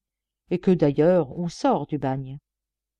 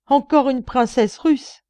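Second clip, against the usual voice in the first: mocking laugh; 7 semitones higher, 7 dB louder, slower than usual. A narrator's reading. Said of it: "partit d'un grand éclat de rire".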